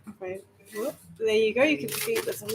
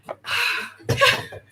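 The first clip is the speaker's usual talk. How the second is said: hysterical sigh-laugh; 10 semitones higher than usual. Real, not acted. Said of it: "making me feel hysterical".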